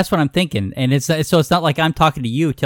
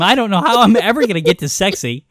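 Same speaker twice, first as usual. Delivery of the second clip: laughing; 5 semitones higher, 4 dB louder than usual. Real, not acted. Laughing at herself.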